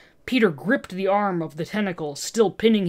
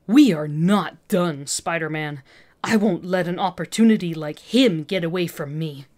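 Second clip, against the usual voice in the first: menacing threat. Acted. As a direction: promise revenge through hatred. Villain threatening Spider-Man.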